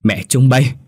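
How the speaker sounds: a mother crying out in despair; mother lamenting over her sick child; wailing lament. Acted. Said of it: "mà than lên".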